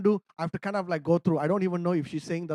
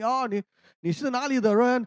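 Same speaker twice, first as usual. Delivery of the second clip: Mandarin question; 6 semitones higher than usual. Retold or imitated.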